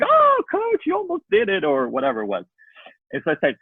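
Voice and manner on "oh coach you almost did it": high mock kids' squeal, lightly imitated; excited kids screaming. Kids cheering the coach's bottle throw, high excited imitation. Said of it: "the kids started, like, screaming".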